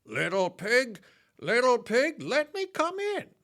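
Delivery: wolf's rising roar. Acted. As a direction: bellow at the door like a hungry wolf.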